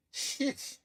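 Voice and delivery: breathy muttered swear; whispered curse. Retold or imitated. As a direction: whisper it under your breath. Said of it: "And she's like".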